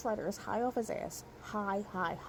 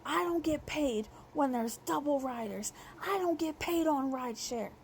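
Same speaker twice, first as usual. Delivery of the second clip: fake baby voice; 4 semitones higher than usual. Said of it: "he started putting on a tone".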